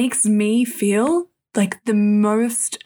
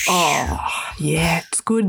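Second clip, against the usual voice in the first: whisper; 4 semitones lower, slower than usual. Pretend. Whispered reply in skit.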